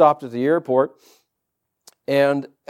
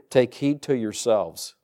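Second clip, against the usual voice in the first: slow, soft reading; 3 semitones lower, 4 dB quieter, slower than usual. Shown as a demonstration. Pastor to congregation, quoting scripture slow and soft. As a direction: Take heed to yourselves read slowly and softly, each word weighed. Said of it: "Isn't that interesting?".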